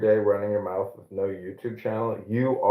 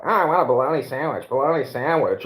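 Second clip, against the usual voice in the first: quick, slightly raised mock whine; imitating a friend; 3 semitones higher, faster than usual. Retelling how El Normo mocked him, a light imitation. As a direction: lightly mimic a friend craving a sandwich. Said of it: "El Normo was imitating him yesterday".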